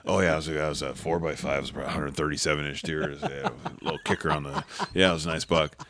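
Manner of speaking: a hint of the speaker sizing up the buck; casual expert rundown. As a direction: rattle off the details like it's obvious. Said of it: "I think".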